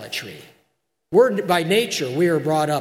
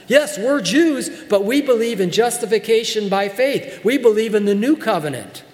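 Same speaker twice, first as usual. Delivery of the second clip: higher-pitched, forceful declaration, key words stressed; insistent preacher voicing Paul's argument; emphatic, as Paul; 3 semitones higher than usual. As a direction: drive each phrase home to Peter. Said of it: "as strongly as he possibly can".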